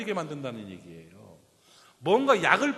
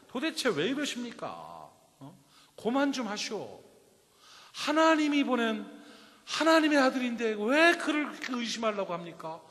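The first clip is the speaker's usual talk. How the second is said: frustrated plea; 5 semitones higher than usual. Retold or imitated. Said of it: "막 답답해가지고".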